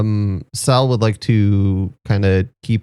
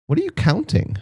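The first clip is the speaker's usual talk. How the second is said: curious question; 9 semitones higher, 4 dB quieter than usual. Acted. Player character asks dwarf.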